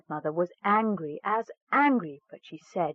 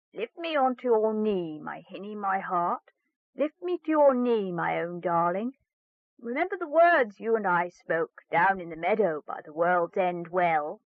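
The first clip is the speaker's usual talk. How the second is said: frog's coaxing plea. Acted. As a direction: coax her like a lovesick frog. Frog coaxes girl.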